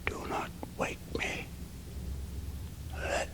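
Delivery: breathless, ghostly whisper from a dying man; barely audible whisper. A narrator's reading. Dying Valdemar answers the mesmerist from his trance, in a faint, slow whisper. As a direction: let the words barely escape the lips, slow and drawn out. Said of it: "in a barely audible whisper".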